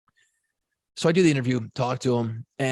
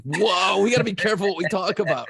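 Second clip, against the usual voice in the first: quick self-warning; 4 semitones higher, 3 dB louder than usual. Retold or imitated. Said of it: "I'm like".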